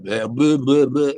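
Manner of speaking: rising, noisy nonsense blahs; mocking blah-blah. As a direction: babble it mockingly, pitch climbing. Mocking garbled reasoning.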